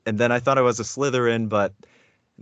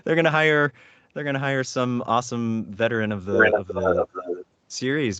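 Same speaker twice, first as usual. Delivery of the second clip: much higher, incredulous British-free squeal of doubt; disbelieving inner voice; 5 semitones higher than usual. Retold or imitated. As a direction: play your own stunned disbelief, pitched way up. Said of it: "and I was like".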